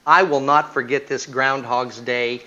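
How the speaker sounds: a hint of a gushing wife with a laugh. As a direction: gush a thank-you through a laugh. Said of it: "She says".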